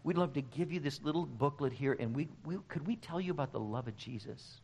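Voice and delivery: politely tentative, fading to soft; kindly. Retold or imitated. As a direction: softly imitate a kind, hesitant evangelist. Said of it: "they would so kindly say".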